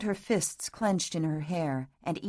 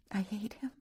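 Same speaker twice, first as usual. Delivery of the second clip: higher, much softer, bitter I hate him; quiet hatred; 4 semitones higher, 8 dB quieter than usual. A narrator's reading. Catherine's quiet bitter take.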